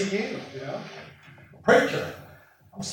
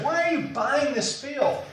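higher, puzzled neighbor asking; mocking neighbors; 8 semitones higher than usual. Neighbors question Jeremiah's purchase, puzzled and higher. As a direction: play the baffled neighbor. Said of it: "That's what his neighbors say".

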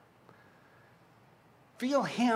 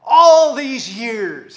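loud, high, drawn-out anger; angry; 4 semitones higher, 13 dB louder, much slower than usual. Acted. Hacked-off son to his dad, loud anger. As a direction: stretch it out in a loud, angry complaint. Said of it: "I want you to hear anger in this".

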